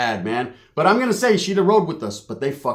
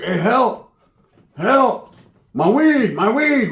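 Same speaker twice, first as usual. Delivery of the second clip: high, loud mock pleading; mock cry for help; 5 semitones higher, 4 dB louder, much slower than usual. Cousin pleads from the ground mid-beating, mock cry for help. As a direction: imitate a helpless victim crying out.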